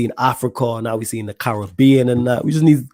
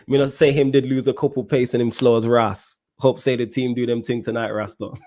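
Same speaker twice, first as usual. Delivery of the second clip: put-on Jamaican accent. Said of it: "My terrible Jamaican accent".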